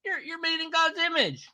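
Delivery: high, soft preachy believer voice; mock believer. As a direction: answer sweetly like a pious believer. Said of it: "just say".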